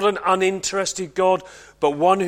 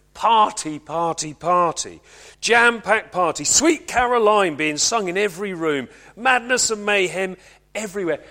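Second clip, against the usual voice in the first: excited; 5 dB louder than usual. Acted. Evoking a rowdy party.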